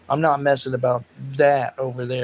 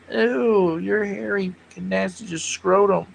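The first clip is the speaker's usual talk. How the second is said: higher, slow disgusted groan; mock disgust; 5 semitones higher, slower than usual. Host imagining the punch, mock disgust. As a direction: recoil in mock revulsion.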